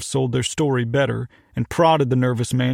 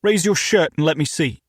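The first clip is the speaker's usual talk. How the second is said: put-on British accent; 3 semitones higher than usual. British owner ordering.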